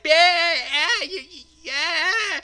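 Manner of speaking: high, loud bleating yeah; sheep voice. Pretend. Reviewer voices Shaun the Sheep being flicked, high bleating. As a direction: bleat it like a tiny hurt sheep. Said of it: "Shaun the Sheep is like".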